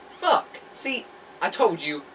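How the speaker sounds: high, loud frustrated curse; angry yell. Acted. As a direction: explode at losing the round. Characters killed in the game.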